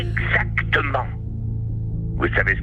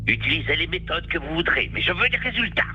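demanding; 5 semitones higher than usual. Acted. Boss demanding results.

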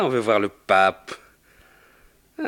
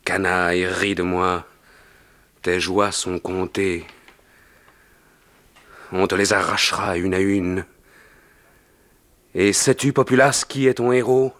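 addressing the crowd; 5 semitones lower than usual. Acted. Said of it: "s'adressant à la foule".

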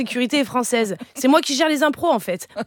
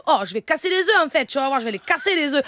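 put-on southern French accent; 3 semitones higher than usual. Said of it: "maintenant l'accent du Sud".

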